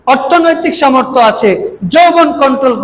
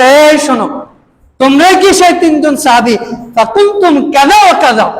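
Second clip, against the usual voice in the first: mildly raised, reproving call to account; higher-pitched retelling of a scolding; retold rebuke; 3 semitones higher than usual. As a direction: call them out with mild reproach. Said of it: "রাসূল যে ইসলাম তাদের ধমক দিলেন".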